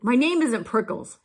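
grumpy storybook cactus shouting; indignant yell. A narrator's reading. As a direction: yell back crossly. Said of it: "Hank yelled back".

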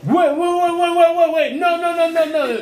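high, urgent rapid repetitions; excited, insistent protest; frantic stalling. Real, not acted. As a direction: cut everyone off in a hurry. Stalling as rival knows answer.

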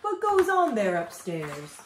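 calling out. A narrator's reading. Moose questions his noisy guests, calling out. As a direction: call upstairs, mildly put out. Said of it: "he called out".

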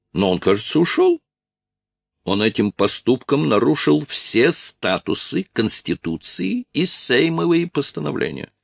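put-on high, affronted voice; indignant Polish officer.

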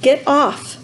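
put-on high-pitched, tearful boy's protest; narrator's acted sob, pitched high; sobbing. A narrator's reading. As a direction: act upset, pushing someone away in tears. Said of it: "sobbed Roderick".

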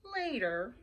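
soft, drawn-out farewell; long pauses between sluggish words; slow sloth. A narrator's reading. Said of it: "said the sloth slowly".

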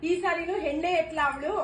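scornful loud grumble; disgusted outburst. Acted. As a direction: spit out her disappointment. Disgusted at granddaughter.

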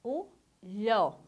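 "lhó" alone as one syllable, "lh" one sound; isolated digraph sound. Shown as a demonstration. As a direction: sound out "lhó" by itself after a short pause. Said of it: "vai sair com o som aqui".

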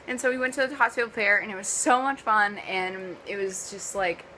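talking through a mouthful of "so much fun"; chewing while saying "amazing"; mouth full. Real, not acted. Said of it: "I'm eating a Pop-Tart".

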